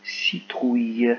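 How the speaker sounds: repeated slowly and clearly; slow dictation repeated. Shown as a demonstration. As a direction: say it again, drawn out for little ears. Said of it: "C'est parti".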